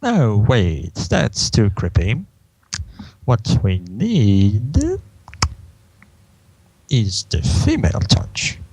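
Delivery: lightly theatrical, long pauses between phrases; Discord. Acted. Discord thinking up another plan, lightly theatrical. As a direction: muse aloud in a put-on villain voice. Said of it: "Discord starts".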